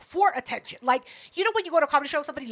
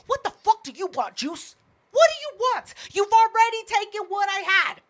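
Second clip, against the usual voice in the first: higher-pitched, exasperated reenactment; indignant, fed-up retold outburst; retold fury; 5 semitones higher than usual. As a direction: replay being at the end of your rope. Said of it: "I was furious".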